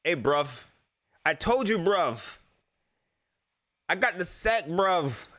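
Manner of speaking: amateur attempt at an English accent; bad English accent. Shown as a demonstration. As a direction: have a clumsy go at English-accented banter. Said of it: "I can't even do an English accent".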